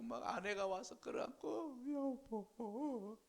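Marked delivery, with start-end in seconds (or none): 1.9-3.2 very slow drawn-out 여보; mock weeping wife. Wife clinging to Jairus and crying, drawn-out mock wail. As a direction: stretch the word like a grieving cry. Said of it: "하고 우는데".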